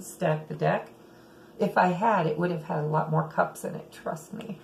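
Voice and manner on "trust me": breathy confiding whisper; whispered aside. Real, not acted. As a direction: lean in and whisper it. Conspiratorial aside to viewers.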